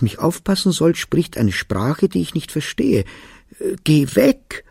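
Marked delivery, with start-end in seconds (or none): 3.8-4.6 loud, higher cry; wanting to scream. Acted. Boy crying out at the strange nanny, loud. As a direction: push her away with a cry. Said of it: "wollte ich schreien".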